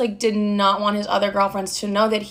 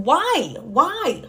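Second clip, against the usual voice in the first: exasperated disbelief; 5 semitones higher than usual. Retold or imitated. Retold baffled reply to boyfriend.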